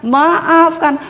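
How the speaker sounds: retold pleading apology, drawn-out words; mildly acted, imploring apology; apologetic pleading. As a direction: imitate someone begging forgiveness. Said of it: "minta maaf bolak-balik".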